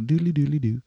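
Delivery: mouth-made fishing reel noise; lightly vocalize a reel spinning; Michael Winslow sound effects. Pretend. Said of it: "I'm practicing my Michael Winslow impression".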